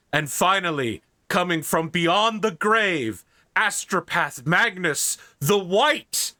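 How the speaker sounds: slow, building ceremonial announcement; announcer introduction. Acted. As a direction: draw out the grand reveal.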